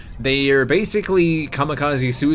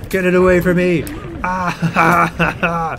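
shrieking in real panic, louder and higher; panicked shout; 7 semitones higher, 8 dB louder, slower than usual. Real, not acted. Player startled by a leech monster, panicked shouting. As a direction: yelp and scream as the thing lunges.

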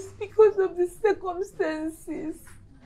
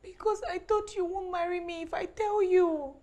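tearful plea. Acted. Wife confesses her secret, crying.

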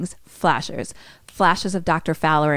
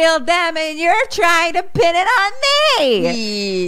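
high, frantic mock outburst; freaking out; 10 semitones higher, 3 dB louder than usual. Mickey accuses Robbie D of framing him, acted freak-out. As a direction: hurl accusations in a raised, high voice. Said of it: "Mickey just starts screaming. He's freaking out".

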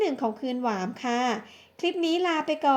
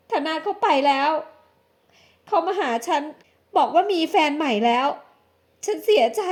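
higher, tearful woman's voice, understated; a touch of sobbing heartbreak; mild acted crying; 3 semitones higher than usual. Jilted woman tells her friend, a hint of tears. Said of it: "หญิงสาวร้องไห้อย่างหมดแรง".

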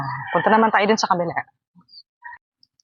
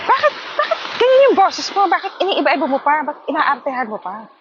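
mimicking critic; 5 semitones higher than usual. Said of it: "Sabi ng isa".

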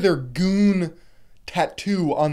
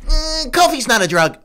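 words broken up by laughter; laughing; 11 semitones higher, 7 dB louder than usual. Real, not acted. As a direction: laugh your way through the line. Laughing while repeating his point.

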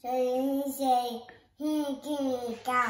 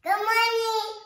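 cheerful greeting; 7 semitones higher, 6 dB louder than usual. Real, not acted. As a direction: call out good morning happily. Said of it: "can you tell everybody good morning".

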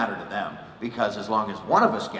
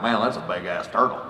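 a hint of Texas redneck. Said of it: "a bunch of Texas rednecks".

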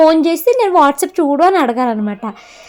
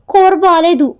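higher, louder imitation of the husband's instant verdict; blunt mock complaint; 5 semitones higher, 4 dB louder, slower than usual. Wife imitating her husband's quick complaint about the curry, blunt. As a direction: snap it out like a quick put-down.

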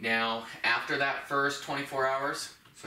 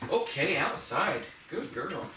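OUTSIDE slow and raised in pitch, swooping; emphasized cue word; 5 semitones higher, slower than usual. Shown as a demonstration. Trainer cueing the dog at the door, stress on OUTSIDE. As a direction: draw out OUTSIDE as a sing-song cue to a dog. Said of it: "emphasize the word outside".

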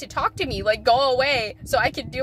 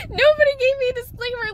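higher, louder exasperated repeat; pitched-up disbelieving complaint; 10 semitones higher, 3 dB louder than usual. Real, not acted. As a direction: say it again, more fed up. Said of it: "repeated emphatic line".

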